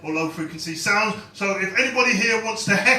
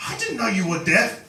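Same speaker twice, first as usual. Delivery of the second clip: squealed ooh then mock-shocked discovery; a high ooh of surprise, then fake shock; 3 semitones higher than usual. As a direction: play the startled fan, high on the ooh. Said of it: "and then they go".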